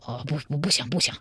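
soft, fawning denial; ingratiating. Acted. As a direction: placate her with a nervous soft voice. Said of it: "张琼一脸陪笑说". (陪着笑小声讨饶)

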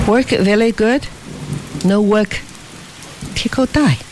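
lightly voiced young Tieko, pleading; Tieko's voice. A narrator's reading.

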